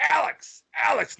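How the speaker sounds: high-pitched call from upstairs; worried mom calling. Retold or imitated. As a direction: imitate a mom calling out, concerned but not angry. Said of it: "Not like she was mad. I could tell she was like, something was wrong".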